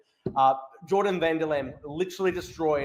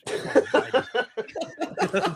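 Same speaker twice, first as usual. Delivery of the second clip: laughing; 7 semitones higher than usual. Real, not acted. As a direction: crack up, high-pitched. Cracking up at election results.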